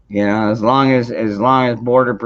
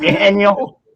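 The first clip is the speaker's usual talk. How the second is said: calling out; 8 semitones higher, 4 dB louder than usual. Real, not acted. Calling Daniel out.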